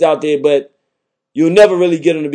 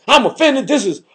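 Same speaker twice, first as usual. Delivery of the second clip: much higher, whiny mock-offended voice; mock offended listener; 6 semitones higher than usual. Mocking a Christian caller who is offended, high and whiny. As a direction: imitate a prim listener clutching pearls. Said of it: "You like".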